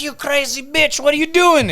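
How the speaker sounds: high-pitched mock outrage; retold angry outburst. Husband opening the door on his wife, mock outrage.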